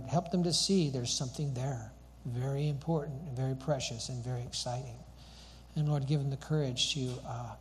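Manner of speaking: earnest, even-toned pastoral prayer; closing prayer. Real, not acted. Pastor asking the Lord to fan us into flame, earnest prayer.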